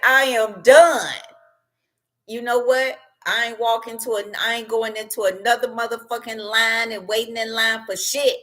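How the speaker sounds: high, heated rant that climbs; ranting man. Retold or imitated. Fed-up man ranting about the country, high and heated. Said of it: "he said".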